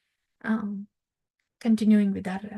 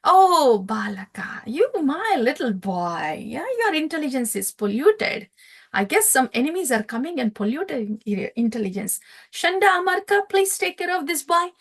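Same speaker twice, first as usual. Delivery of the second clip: a hint of a scornful king laughing at his son; lightly voiced demon king, dismissive then commanding; king brushing off his little boy's advice, amused; mocking king. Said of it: "He, he laughed".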